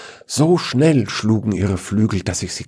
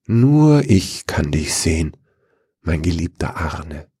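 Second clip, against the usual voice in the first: breathy whisper into his ear. A narrator's reading. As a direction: whisper it close and tender. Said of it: "hörte ich sie wispern".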